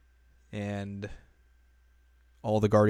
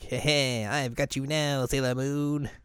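Zoisite; 3 semitones higher, slower than usual. Retold or imitated. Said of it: "then Zoisite shows up. He's like".

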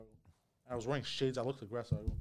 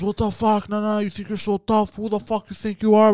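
higher, taunting, aggressive; mock angry guy; 6 semitones higher than usual. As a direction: pick a fight, chest puffed out. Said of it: "And the guy goes".

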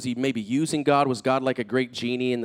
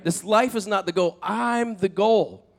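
raised pitch, slowing at the end; emphatic declaration; 6 semitones higher, slower than usual. Retold or imitated. Jesus setting Martha straight, emphatic. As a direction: stretch out the final claim.

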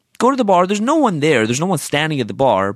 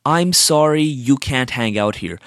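bitter mimicry; 3 semitones lower, slower than usual. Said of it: "God, that pissed me off".

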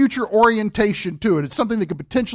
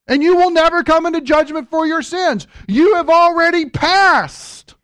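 emphatic proclamation; 6 semitones higher than usual. Acted. Preacher proclaims promise with force.

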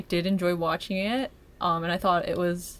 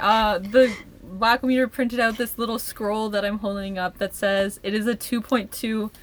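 raised, slow proclamation; town crier; 3 semitones higher than usual. Acted. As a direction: proclaim it to the town square, slowly. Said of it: "Announce it from the town criers".

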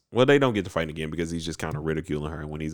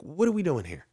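high, outraged spirit voice; indignant Puck; 11 semitones higher than usual. Retold or imitated. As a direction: demand it up high in disbelief. Puck voiced defending Amelia.

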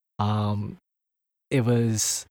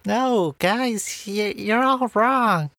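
much higher, slow menacing voice; 11 semitones higher, much slower than usual. Pretend. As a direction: threaten them, slow and high. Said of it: "Better. Much better".

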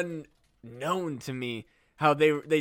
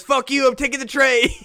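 higher, louder defiance; rowdy old man; 6 semitones higher, 7 dB louder than usual. Pretend. Old man defies the Jell-O rule, louder. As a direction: grab it and dare them.

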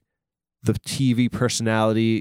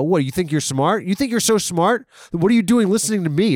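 mock taunting; 7 semitones higher, 3 dB louder than usual. Mock berating the audience.

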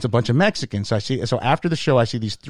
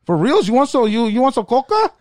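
much higher, eager dealer offering coke; street dealer voice; 12 semitones higher than usual. Retold or imitated. Comedian imitating a high-voiced dealer offering cocaine, eager. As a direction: lean in like a pushy street hustler.

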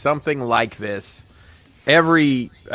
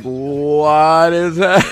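very drawn-out, louder puzzled question; mock bewilderment; 4 semitones higher, 5 dB louder, much slower than usual. Man imitating his clueless friends in a photo, mock bewildered. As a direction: stretch it out as if utterly baffled. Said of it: "the other three of us are like".

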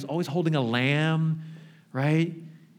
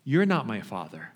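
defiant son; 5 semitones lower than usual. Retold or imitated. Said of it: "And he said".

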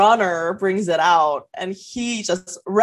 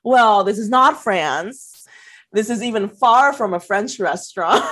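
slow retort; 4 dB louder than usual. Retold or imitated. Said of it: "And I'm like".

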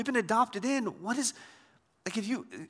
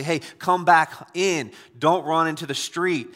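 parent calling out; 5 dB louder than usual. Acted. Parent calling child from road.

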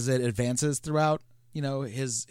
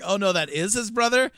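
louder, higher mock realization; realizing the twins really are brothers, mock surprise; 5 semitones higher, 8 dB louder than usual. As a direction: play out a sudden penny-drop. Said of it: "And it's like".

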